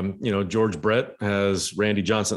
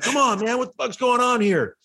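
much higher, hammed-up exasperated yell; imitated yelling. Runner yelling at the catcher during the game, hammed-up high exasperation. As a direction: squeal it like a fed-up runner mocking the catcher. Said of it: "yelling at Benito Santiago".

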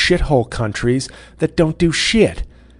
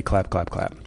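Jeb Bush voice; 4 semitones lower, slower than usual. Retold or imitated. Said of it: "Jeb Bush voice".

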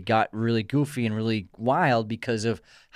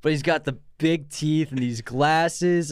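slow, high words broken by laughter; laughing; 5 semitones higher, slower than usual. Real, not acted. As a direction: describe him while still giggling. Laughing about Donnie's look.

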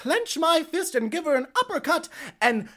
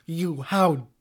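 scornful grande dame; 8 semitones lower, 4 dB quieter, much slower than usual. Acted. Ex-wife scorns intruder.

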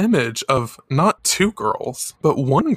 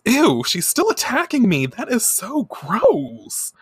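disgusted idol voice; 9 semitones higher, slower than usual. Retold or imitated. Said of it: "Minako says".

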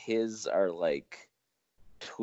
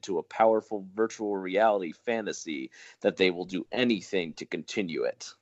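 movie trailer announcer read. Pretend. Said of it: "in your best announcer voice, please".

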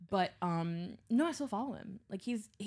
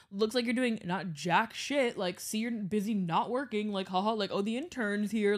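mocking coach; 2 semitones higher, 4 dB louder than usual. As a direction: needle the intern like a jock coach. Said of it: "he would be like".

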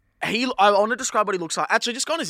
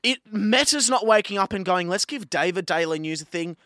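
heated telling off; 4 semitones higher, 5 dB louder than usual. Real, not acted. Telling David off.

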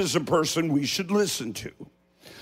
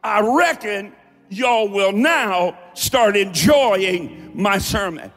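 Appalachian accent. Shown as a demonstration. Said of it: "Reckon means suppose".

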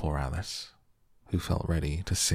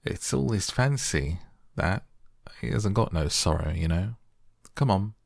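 raspy voice with eagle shrieks; 2 semitones higher than usual. Acted. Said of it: "very nearly in the same words as before".

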